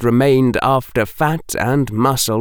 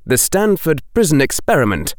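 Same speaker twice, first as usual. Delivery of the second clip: ordinary delivery, nothing marked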